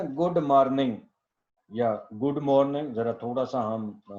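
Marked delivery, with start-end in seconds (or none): 0.0-1.0 गुड मॉर्निंग in plain South Asian English, with an "ar" vowel, "marning"; गुड मॉर्निंग as "good marning", South Asian accent; local Pakistani English. Shown as a demonstration. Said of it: "हम तो बोलते हैं ना". 2.1-2.9 गुड मॉर्निंग with the d and r both sounded; local careful pronunciation. Shown as a demonstration. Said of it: "हम तो बोलते हैं ना".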